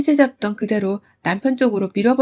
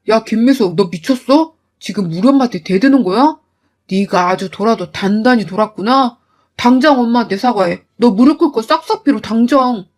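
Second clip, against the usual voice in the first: angry husband. Acted. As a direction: bark orders at the wife. Husband voiced in fight. (아내에게 사과하라고 다그치는 남편, 낮고 거칠게)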